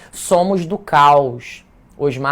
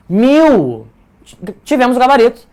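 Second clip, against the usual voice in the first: loud, high cry of delight; excited announcement; 7 semitones higher, 8 dB louder than usual. Real, not acted. Teacher announces the essay scored a thousand, loud and excited. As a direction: burst out with the big reveal.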